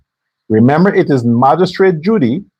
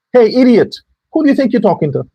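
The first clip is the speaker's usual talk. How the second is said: a sharp, higher, angry jab at him; angry callout; 4 semitones higher, faster than usual. Real, not acted. Ranting at Ganesh, he calls him an idiot angrily. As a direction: call him out, pitch up with contempt.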